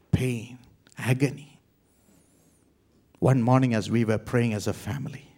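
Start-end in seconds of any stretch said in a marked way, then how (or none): 0.1-1.6 whispered. Real, not acted. Recalling months of sorrow.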